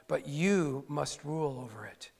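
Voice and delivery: a hushed whispered warning, voice dropped away. Shown as a demonstration. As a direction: breathe the last words of the verse. Reading the verse as a warning.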